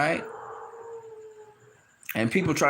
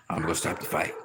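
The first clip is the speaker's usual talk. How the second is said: lower, softer confiding voice; hushed private aside; 8 semitones lower, 6 dB quieter than usual. Retold or imitated. Mark Breland privately telling Jay Deas, hushed. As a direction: say it like a quiet word in the corner.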